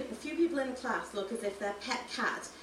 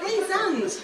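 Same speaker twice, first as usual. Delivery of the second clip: much louder, higher call across the room; 10 semitones higher, 8 dB louder than usual. Acted. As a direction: call to her as she sneaks past. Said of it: "Ben calls".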